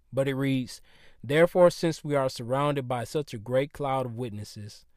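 lisping s from retainers. Real, not acted. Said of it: "excuse me for the lisp that you might hear".

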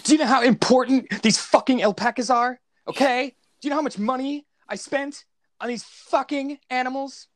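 put-on high-pitched Valley Girl uptalk; loud, high, rising Nick Cage whine; Nick Cage impression. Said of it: "so that's my Nick Cage".

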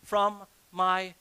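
very slow, drawn-out proclamation; exclaimed. Acted. Adam declaring over his new wife, slow exclamation. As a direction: stretch each phrase out slowly as a declaration. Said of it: "Adam exclaimed".

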